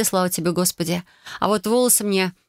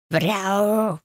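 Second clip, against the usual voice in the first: cat yowl; 2 semitones higher than usual. Acted. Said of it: "рыкнул на меня Баюн".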